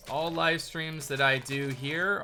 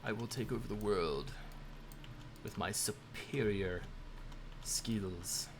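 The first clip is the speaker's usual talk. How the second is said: robot voice; 4 dB quieter than usual. Pretend. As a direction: play a world-conquering robot. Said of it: "Do I sound like a robot".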